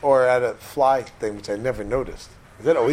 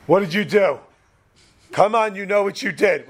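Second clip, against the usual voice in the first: accusing parent; 4 semitones higher than usual. Retold or imitated. Parent confronting a child after a misdeed, accusing. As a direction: confront a kid who did wrong. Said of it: "whenever you know a parent goes".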